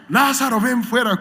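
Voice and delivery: high, grand movie Jesus call; a hammed-up epic film voice; movie-style Jesus. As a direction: call it out like in the films. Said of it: "como las películas".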